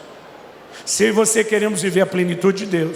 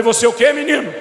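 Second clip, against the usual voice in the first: incredulous high cry of disbelief; father stunned at his son's choice, pitch jumping up; shocked; 6 semitones higher, 5 dB louder, faster than usual. Retold or imitated. Father reacting to son turning down salary, shocked cry.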